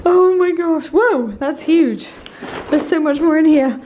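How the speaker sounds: breathless, thrilled and loud; excited. Real, not acted. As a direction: gush over the gifts. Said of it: "getting out of breath in excitement".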